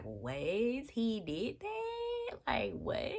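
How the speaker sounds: strained squeaky disbelief fading to breath; mock shock. Vlogger acting reading viewer stories, squeaky mock shock. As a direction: gasp out the shock, half whispered. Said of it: "I be like".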